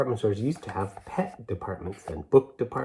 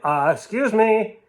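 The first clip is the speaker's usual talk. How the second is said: high, polite put-on voice of a helpful stranger; polite man; 10 semitones higher than usual. Helpful man calling to the children, high and polite. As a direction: play a fussy polite gentleman returning the sweater. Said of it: "This man's like".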